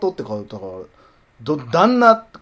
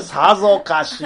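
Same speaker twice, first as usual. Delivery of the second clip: slow, drawn-out mock line; host mimicking his cohost's catchphrase; imitating her; 4 dB louder, slower than usual. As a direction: stretch it out as a lightly voiced impression. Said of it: "っていうやつやったっけ".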